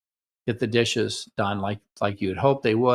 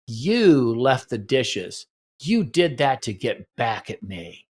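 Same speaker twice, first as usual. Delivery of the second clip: slow accusing blame; slower than usual. Shown as a demonstration. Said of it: "And the comeback is".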